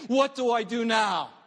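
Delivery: shouted up to heaven in despair; a father calling out, lost; desperate cry. Retold or imitated. Father pleading to heaven for his burning son, cried out.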